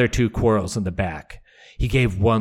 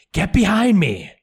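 higher, louder insistent command; Brienne's retort; 10 semitones higher, 4 dB louder than usual. Acted. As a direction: snap it back at him, standing your ground.

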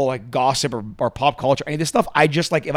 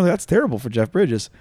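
trying not to smile. Real, not acted. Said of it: "No, sorry, I'm not".

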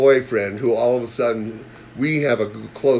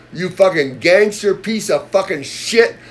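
angry retold insult; 5 semitones higher, 3 dB louder, slower than usual. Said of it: "I was innocent in this fucking thing".

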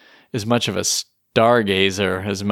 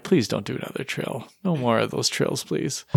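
softer, pleading aside; mock plea; 6 dB quieter than usual. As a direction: beg quietly, half in jest. Acted weary plea against trills.

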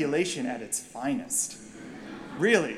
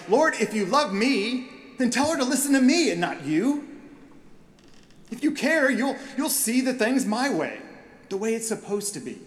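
petulant demand; 4 semitones higher than usual. Retold or imitated. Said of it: "You tend to say outrageous things like".

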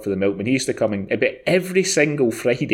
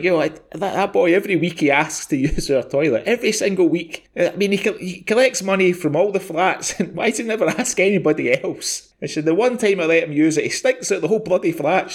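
higher-pitched, lightly acted angry mum; a touch of an annoyed mother complaining; mock furious mum; 6 semitones higher than usual. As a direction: moan at the milkman in mum's outraged voice. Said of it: "She was absolutely furious".

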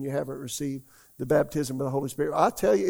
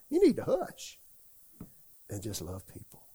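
sharp rebuke; 4 semitones lower than usual. Acted. Rebuking the judgmental listener.

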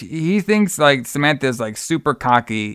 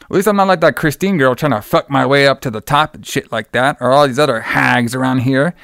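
indignant rant, quoted quickly; retold freak-out. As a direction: imitate someone going off on a director. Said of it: "he starts freaking out on him".

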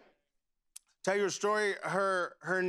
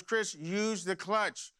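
slow, deliberate fatherly reminder; measured instruction; much slower than usual. Retold or imitated. Father gives Chris his usual advice, measured. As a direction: spell out the advice patiently, without raising the voice. Father's saying, delivered as lesson.

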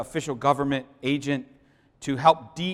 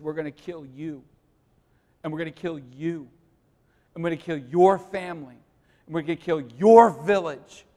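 building threat; 2 semitones higher, 7 dB louder than usual. Retold or imitated. Agent threatening the warlord.

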